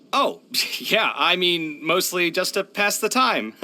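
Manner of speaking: a high, awkward laugh through the words; nervous laugh. Real, not acted. Sheepish laugh when asked about drinking. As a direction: laugh it off, a bit caught out.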